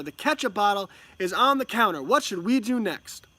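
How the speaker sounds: clear, instructional chatter to an infant; narrating to a baby. Acted. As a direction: talk a baby through each little step. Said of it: "first eight months was narration".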